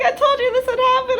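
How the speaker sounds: high, loud I-told-you-so mother; scolding mom. Retold or imitated. Mom on the phone scolds her daughter, high and loud. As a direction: nag like a mom proven right.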